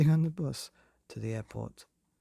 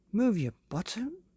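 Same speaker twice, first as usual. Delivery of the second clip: shouted; 9 semitones higher than usual. A narrator's reading. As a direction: shout at Father to hurry. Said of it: "shouted Myrtle".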